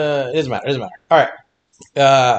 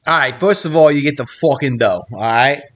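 hammed-up, badly faked Italian accent; mock Italian accent slipping into country Southern. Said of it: "I heard the country now".

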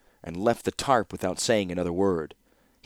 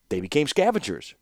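raised and pleased with himself, a touch louder; triumphant retort; 6 semitones higher, 4 dB louder than usual. A narrator's reading. Mishra scores a point on his brother, mildly triumphant. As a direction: snap it back like a winning point. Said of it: "retorted Mishra triumphantly".

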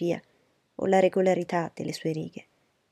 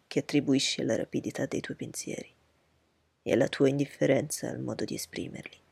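lower, measured, coolly lecturing; reserved proud gentleman; 4 semitones lower than usual. Acted. Darcy coolly lecturing Bingley on his vanity, low and measured. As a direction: dissect his friend's words calmly from low down.

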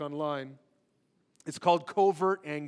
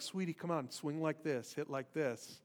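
much softer, a mock gentle coach voice; imitating a hushed coaxing tone; 9 dB quieter than usual. A coach who wants to get rid of a dad, coaxing a girl in an imitated hush. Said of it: "he changed his tone and he quieted down".

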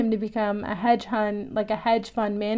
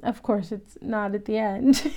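laughing; 4 dB quieter than usual. Real, not acted. Speaker laughing at herself.

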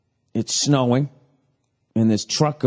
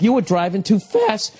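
higher, pushier scold at the TV; mock scolding; 8 semitones higher than usual. Host yelling at the TV driver, mock scolding. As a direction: jab the blame at her. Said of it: "I'm like".

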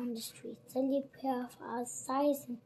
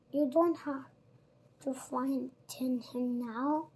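snarled; 5 dB louder than usual. Acted. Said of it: "snarled Bill".

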